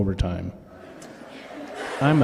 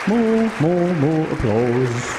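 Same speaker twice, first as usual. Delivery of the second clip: mock crowd-rousing; 5 semitones higher, slower than usual. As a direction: whip up a pretend crowd. Asking audience for applause.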